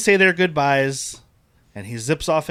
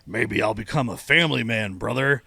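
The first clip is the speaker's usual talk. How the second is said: Hulk Hogan impression; 5 semitones lower than usual. Quoting Hulk Hogan's farewell line, in a lower, gruff wrestler's voice. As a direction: play it like a big-hearted wrestler. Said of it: "Hulk Hogan's like".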